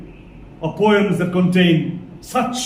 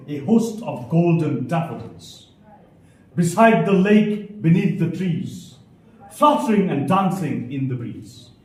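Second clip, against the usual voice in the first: lower, measured verse reading; poem recitation; 5 semitones lower than usual. Shown as a demonstration. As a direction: let each line of verse settle downward.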